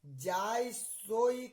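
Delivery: measured poem delivery, pausing after each verb; verse recitation. Shown as a demonstration. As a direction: recite the devotional verse phrase by phrase. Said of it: "जैसे मैं बोल रहा हूँ".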